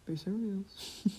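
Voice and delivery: slow, falling serious. Shown as a demonstration. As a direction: draw out serious slowly.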